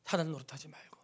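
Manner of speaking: hushed warning, almost breathed; whisper. Real, not acted. Pastor warning the congregation, whispered. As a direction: drop to a whisper to warn them.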